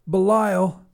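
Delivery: high, intoned priest's call; priestly voice. A narrator's reading. Priest addresses the big demon, priestly intoning. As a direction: call the name like a preacher. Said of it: "he said in a priestly voice".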